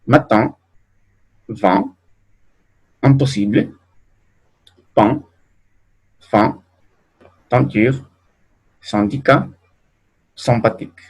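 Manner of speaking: matin, vin, pain with nasal ɛ̃; French nasal in words. Shown as a demonstration. Teacher to class, modelling French nasal in. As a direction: nasalise the in and ain.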